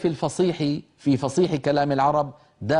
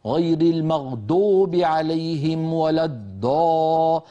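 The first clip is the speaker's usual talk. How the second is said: slow, deliberate recitation with a heavy emphatic d for ض; non-Arab reciter; 3 semitones higher, much slower than usual. Retold or imitated. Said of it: "من العجم من يفخمها ... فيقول مثلًا".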